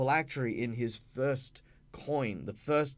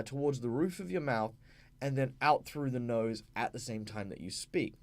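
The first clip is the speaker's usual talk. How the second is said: normal talking voice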